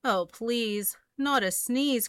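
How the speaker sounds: pleading cry. Acted. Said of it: "cried the bear".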